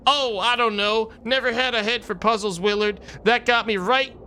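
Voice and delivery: put-on high, slow old-timer cowboy. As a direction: drawl it like an old prospector. Cowboy character Gabby voiced.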